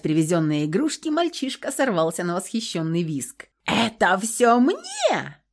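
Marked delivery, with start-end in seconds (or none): 3.6-5.4 put-on amazed little boy. Boy sees the toys.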